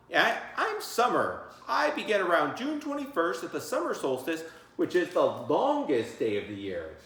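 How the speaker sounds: put-on a kid proudly naming her season; child actor. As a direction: say your line carefully like a kid in a play. Child playing summer in skit.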